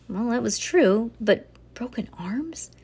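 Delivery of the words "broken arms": slow, hushed, rising question; soft, breath-only query; appalled whisper. A narrator's reading. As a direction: whisper it in disbelief. Bean balks at the idea.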